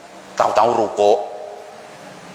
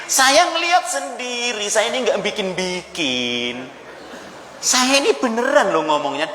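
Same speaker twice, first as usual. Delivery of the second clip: higher, indignant protest of a gossiper; defensive gossiper; 6 semitones higher than usual. Retold or imitated. Gossiping woman defends her gossip to a friend, higher indignant voice. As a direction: insist you're only telling the truth, aggrieved.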